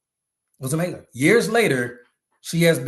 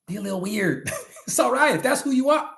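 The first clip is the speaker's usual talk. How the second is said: laughing; 8 semitones higher, faster than usual. Real, not acted. Laughing encouragement.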